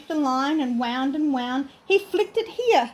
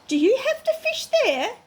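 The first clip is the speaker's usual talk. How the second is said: grumpy bear voice; 8 semitones higher than usual. Acted. Grumpy brown bear speaking.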